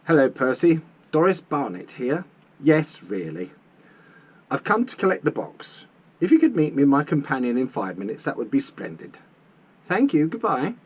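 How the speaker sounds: poised Missus Barnett. Acted.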